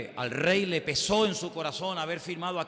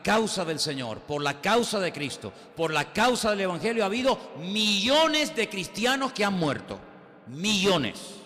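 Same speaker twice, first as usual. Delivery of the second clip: building up louder and higher; rising preaching fervor; 4 semitones higher, 4 dB louder than usual. Real, not acted. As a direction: preach it with growing force.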